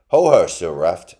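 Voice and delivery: loud, slow, high mole hail; jovial mole. A narrator's reading. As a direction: call out as a jolly little mole. Mole hails the turtle.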